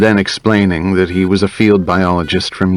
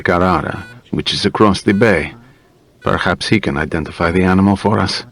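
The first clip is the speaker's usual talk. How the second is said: lightly voiced doctor deferring to a specialist; a hint of a formal clinician; helpful doctor. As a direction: offer help as a modest doctor.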